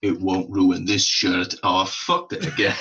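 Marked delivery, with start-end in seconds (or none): 0.0-1.5 slow, loud attempt at an Austrian Arnie accent; deadpan it slowly in Arnie's Austrian accent. Retelling Arnie's airport joke, in a slow mock Austrian accent. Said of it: "And he says".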